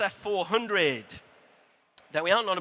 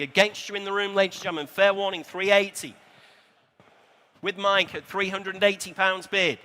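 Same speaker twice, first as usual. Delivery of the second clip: auctioneer calling bids. Acted. Live bike auction calling bids.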